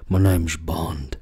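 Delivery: hushed, slow secret-agent whisper; half-whispered Bond catchphrase, lightly played; mock James Bond line. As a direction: breathe it like a spy in a kid's game. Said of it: "run around the house saying".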